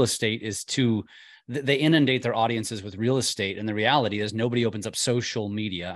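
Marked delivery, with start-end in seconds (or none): 4.3-5.9 "social" picked out with emphasis before "media"; stress on social. Real, not acted. Telling agents what audiences open up, stress on "social". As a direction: lean on the word "social". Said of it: "I emphasize the word social".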